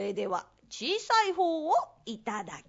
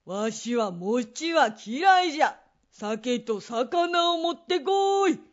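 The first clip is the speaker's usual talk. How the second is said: put-on creaky wise old man; 4 dB louder, slower than usual. Greedy old man demands.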